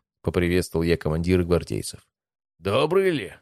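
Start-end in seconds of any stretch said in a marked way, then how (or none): 2.6-3.3 high, doubtful questioning tone; raised-pitch sceptical retort; sceptical hmph. A narrator's reading. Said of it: "хмыкнул он".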